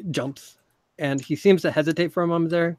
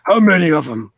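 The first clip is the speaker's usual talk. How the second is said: loud demand; 8 dB louder than usual. Acted. Leader demanding numbers.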